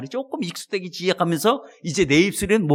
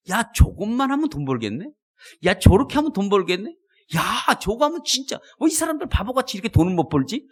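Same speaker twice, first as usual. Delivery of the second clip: higher-pitched, eager musing; mildly acted excitement, pitched up; eager marveling; 4 semitones higher than usual. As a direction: marvel at easy money to be made. Voices past self spotting money chances.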